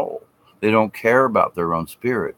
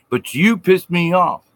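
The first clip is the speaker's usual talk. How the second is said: mock grudge-holder; 8 semitones higher than usual. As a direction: whine it like a sulking grudge-holder.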